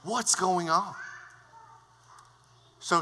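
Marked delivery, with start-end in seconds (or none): 0.0-0.9 queen jolted from her game; startled queen. Retold or imitated. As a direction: call out in alarm.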